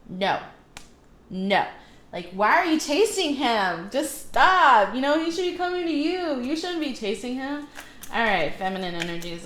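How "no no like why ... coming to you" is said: self-scolding. Real, not acted. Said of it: "I'm gonna just slap myself".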